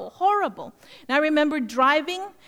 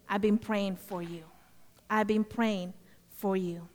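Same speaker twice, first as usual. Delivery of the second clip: soft, low and sincere; tender revelation; 4 semitones lower, 6 dB quieter than usual. Retold or imitated. Pastor telling the stranger he prayed for her, tenderly. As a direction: let it land gently, with feeling.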